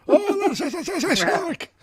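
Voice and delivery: high, loud, slow dim realisation; Sancho realising. Retold or imitated. Reviewer voicing Sancho's slow, loud realisation. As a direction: drag out the shark line like a dope. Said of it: "Sancho goes like".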